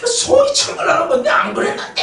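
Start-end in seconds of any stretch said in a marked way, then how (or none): 1.3-2.0 breathy whispered mock whine; imitating a whispered complaint; whispered denial. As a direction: whisper it like a sulking gossip. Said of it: "하면서".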